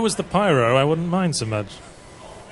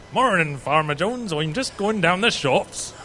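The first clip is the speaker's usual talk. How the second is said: West Country farmer; 4 dB quieter, slower than usual. Retold or imitated. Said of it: "That's not a pirate. That's a farmer".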